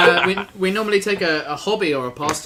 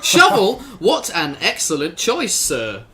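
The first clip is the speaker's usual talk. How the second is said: snooty waiter; 3 semitones higher, 4 dB louder than usual. Acted. Improv scene, fawning over a tool choice.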